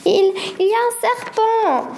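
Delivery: high, stammering alarm; frightened. Acted. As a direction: stutter it out, scared of the snake. Boy terrified at snake.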